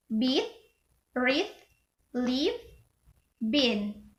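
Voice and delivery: short E in beat, read, leave, been. Shown as a demonstration. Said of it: "This is short E".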